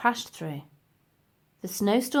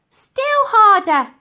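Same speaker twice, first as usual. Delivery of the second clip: high, loud, slow insistence; insistent; 12 semitones higher, 11 dB louder, slower than usual. Acted. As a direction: press for more, drawn out. Old lady urging more force.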